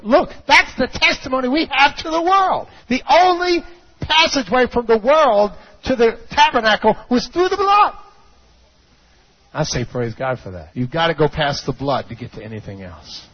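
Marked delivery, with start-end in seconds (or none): 0.0-7.9 high, emphatic pulpit proclamation; full-force preaching. Acted. Preacher declares the testimony to the congregation, full-force preaching. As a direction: preach it hard, climbing to a high cry.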